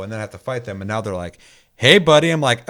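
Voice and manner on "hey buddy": mock friendly greeting. Trainer voiced, now friendly.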